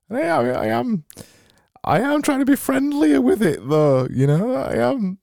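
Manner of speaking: high, strained cheery voice; squeaky grinning voice; forced happy high voice. Shown as a demonstration. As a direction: push the pitch way up and force a big grin. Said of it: "My cheeks are hurting now".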